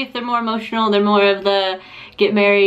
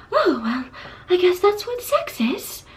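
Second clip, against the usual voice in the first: put-on resigned girl; 8 semitones higher than usual. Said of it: "she's gonna be like".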